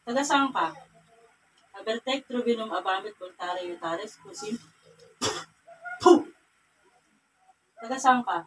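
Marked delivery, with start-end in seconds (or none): 1.7-4.6 soft, low ritual muttering; murmured incantation. Real, not acted. Healer recites Latin-like spell. 6.0-6.2 sharp burst of blown breath; ritual puff. Real, not acted. Healer blows after the spell.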